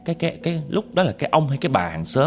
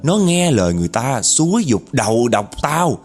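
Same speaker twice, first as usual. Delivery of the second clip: aggrieved ghost woman's tale; 5 semitones higher than usual. Retold or imitated. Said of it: "vừa nói vừa gằn giọng mà vừa chửi mà vừa ấm ức".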